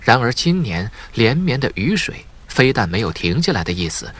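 plain reading voice

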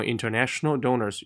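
"international donors" up, then down; rise then fall. Shown as a demonstration. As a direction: lift on "international", drop on "donors". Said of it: "语调可以一升一降".

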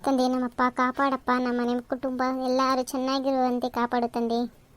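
slow, subdued acted prayer; praying. Mother-in-law praying for the household's well-being, slow and hushed. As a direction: plead slowly with God.

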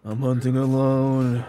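slow, drawn-out edgy loner voice. Pretend. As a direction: stretch it out like a brooding lone hunter. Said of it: "That's my edgy voice".

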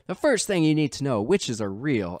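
mock southern-drawl narrator; over-the-top southern drawl. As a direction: lightly imitate a narrator's exaggerated southern drawl. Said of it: "really over the top drawl".

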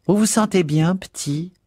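high-pitched motherly inquiry; motherly concern. A narrator's reading. Missus Biggs checks on pale Zipser with motherly concern. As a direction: fuss over a youngster in a high voice. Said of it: "demanda-t-elle avec une sollicitude maternelle".

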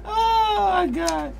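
talking through high giggles; can't stop laughing mid-sentence. Real, not acted.

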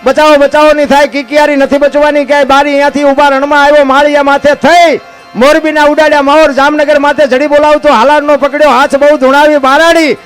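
folk poem recital. Acted. Storyteller reciting Bhikhabhai's earthquake verses to the crowd, rhythmic chant. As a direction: recite the earthquake poem like a bard in full flow. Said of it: "એની બાપુ યાદી કરાવું તમને".

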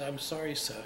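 imitating a Cockney apology; retold line with a touch of Cockney; lightly put-on Cockney voice; broad Cockney accent. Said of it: "in a broad Cockney accent".

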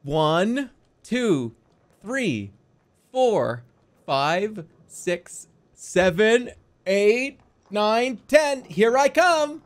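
hide-and-seek seeker. Pretend. Seeker counting for a pretend three-year-old, playful and building. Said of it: "we're gonna do that routine".

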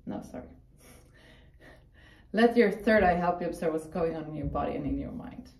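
calm meditation guide voice; guided meditation. Acted. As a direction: lead the inner journey gently. Leads a meditation.

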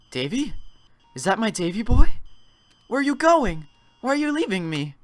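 put-on high pleading old woman; mother begs her son not to leave. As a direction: voice the mother, begging her boy to stay.

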